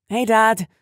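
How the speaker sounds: put-on high, loud girl's greeting; teen girl voice. A narrator's reading. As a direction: greet her dad brightly. Girl greets her father.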